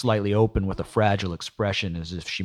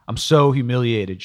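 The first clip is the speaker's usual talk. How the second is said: sobbing; 5 semitones higher, 7 dB louder than usual. A narrator's reading. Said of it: "Cheryl sobbed".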